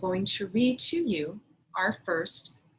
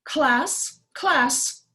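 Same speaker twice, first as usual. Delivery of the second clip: louder, higher call for attention; firm teacher's attention call; calling class to order; 6 semitones higher, 5 dB louder, slower than usual. Acted. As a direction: get the room's attention like a principal. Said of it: "cleared her throat".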